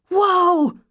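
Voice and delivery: high, loud yell to a horse; yelled whoa. A narrator's reading. Rider yelling at her runaway horse, a high loud whoa. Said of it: "she yelled".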